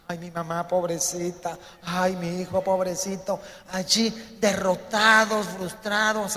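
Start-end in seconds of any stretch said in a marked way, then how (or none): 0.1-3.4 mock pitying sighs; playing the victim. Preacher mimicking those who love being victims, mock pity. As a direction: imitate someone milking sympathy. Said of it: "le encanta hacerse la víctima".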